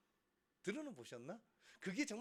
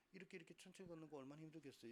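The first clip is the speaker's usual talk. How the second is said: quiet aside; 12 dB quieter, faster than usual. Shown as a demonstration. Demonstrating laboured slow walking.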